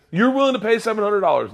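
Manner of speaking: a cop who can't believe it; incredulous cop. Retold or imitated. Cop amazed he'd pay the fine, mock incredulous. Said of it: "The cop came up very angry".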